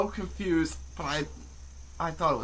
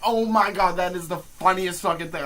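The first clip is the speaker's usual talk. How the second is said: raised, excited exclamation; amused amazement; 3 semitones higher, 4 dB louder than usual. Retold or imitated. Student reacting to the kid's joke, amused amazement. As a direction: burst out as if floored by the joke.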